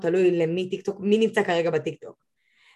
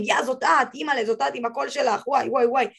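higher-pitched, lightly gushing fan impression; imitated excited fans; 4 semitones higher than usual. Guest imitates clients recognising her voice from the lives, mock starstruck. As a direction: act out a client thrilled to recognise you.

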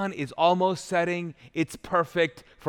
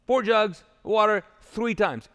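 higher and louder, slow and emphatic; bold command; 6 semitones higher, 5 dB louder than usual. Retold or imitated. Elijah calls for more water, slow and loud. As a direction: call it out like a showman ordering the crowd. Elijah orders the altar drenched.

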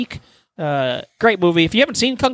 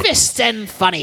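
laughing repeat; 6 semitones higher than usual. Shown as a demonstration. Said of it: "There you go".

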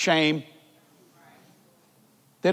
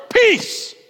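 calm word from God; 9 dB louder than usual. Retold or imitated. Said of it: "And then the next word".

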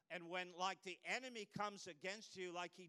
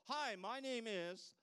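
slow, louder, higher hello; drawn-out greeting; 6 semitones higher, 7 dB louder, slower than usual. Retold or imitated. Greeting while reading the name tag, slow. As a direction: stretch the greeting out warmly.

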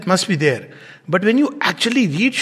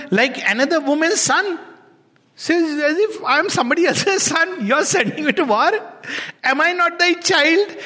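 higher, anguished appeal; a wounded son crying out; son pleading with his mother; 5 semitones higher than usual. Acted. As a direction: reproach a hard-hearted mother. Son's reply continues.

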